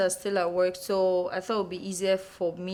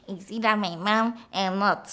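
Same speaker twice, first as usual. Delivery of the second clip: mocking mimicry. Stepparent alone echoing the child's rebuff, mocking. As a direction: mimic a bratty child's words.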